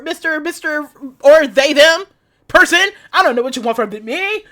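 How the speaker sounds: desperate wee lad. Acted. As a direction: plead like a frightened boy. Voicing desperate character lines.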